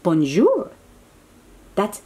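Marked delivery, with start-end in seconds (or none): 0.0-0.7 pufferfish voice. Acted. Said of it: "this pufferfish saying".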